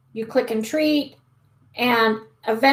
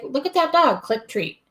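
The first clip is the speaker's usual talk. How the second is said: cheery cue; 3 semitones higher, 4 dB quieter than usual. Shown as a demonstration. Cheerful marker cue to dog.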